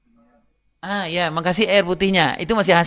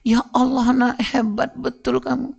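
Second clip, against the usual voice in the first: slow, mock-gushing praise; a proud dad's drawn-out praise, gently hammed up; overdone praise; 5 semitones higher, slower than usual. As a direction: lay the praise on a bit thick. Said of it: "Ayah bilang".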